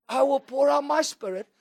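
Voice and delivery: booming, stretched proclamation; proclaiming. Acted. Preacher booming scripture to the congregation, stretched out. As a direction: proclaim it to the whole church.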